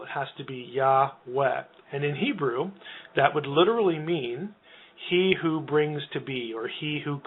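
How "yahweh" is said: Yahweh with an open ah first, YAH-weh; A-vowel demo. Shown as a demonstration. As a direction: sound out Yahweh in two syllables. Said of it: "an A vowel in the first syllable".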